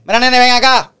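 put-on high, patronizing call to a kid; condescending stranger.

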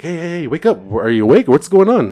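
high, loud urgent calls; retold alarmed wake-up call; re-enacted rousing. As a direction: try to shake them awake. Shaking girlfriend awake, retold.

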